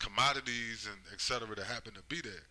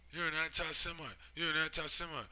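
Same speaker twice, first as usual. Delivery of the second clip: mock accusing shout; 6 semitones higher than usual. Mocking accusers screaming.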